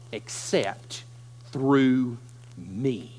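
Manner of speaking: slow, soft, almost whispered; hushed and solemn. Acted. Jesus answering panicked Thomas, slow hushed calm. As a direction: drop to a hush for weight.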